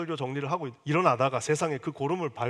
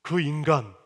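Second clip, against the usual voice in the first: scornful wife; 6 dB louder, slower than usual. Retold or imitated. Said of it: "자기 남편이라고도 안 해".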